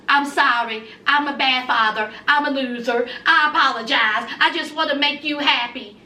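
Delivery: low, pleading voice of a husband begging forgiveness; grovelling husband. Retold or imitated. To his angry son-in-law, a low, begging apology. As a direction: drop low and plead like a whipped loser.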